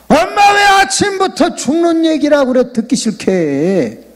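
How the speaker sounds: the son grumbling at his mother's death talk; whiny son. Retold or imitated. (높은 목소리로 투덜대는 아들)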